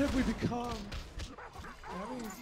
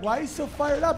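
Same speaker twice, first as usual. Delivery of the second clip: puzzled question; 11 semitones higher, 8 dB louder than usual. Retold or imitated. Owner asks the dog.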